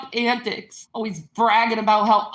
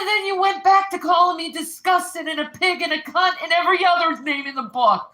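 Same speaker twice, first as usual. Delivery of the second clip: fast angry accusation; 6 semitones higher, faster than usual. Real, not acted.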